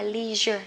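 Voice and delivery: LEISURE as American "LEE-zher"; long EE in LEISURE, the American way. Shown as a demonstration. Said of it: "thích đọc theo kiểu Mỹ". (đọc LEISURE kiểu Mỹ, "li-giơ")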